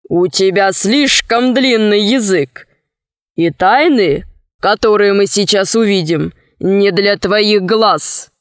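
a hint of stern sailor; lightly voiced sea captain. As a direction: put the bird in its place, unhurried. Story figure, Sinbad to bird.

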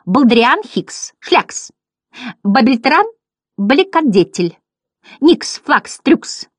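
high, slow comic garbling; clown butterflies. A narrator's reading. Butterflies mangling their benefactor's name, high drawn-out voice. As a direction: stretch each nonsense name out high.

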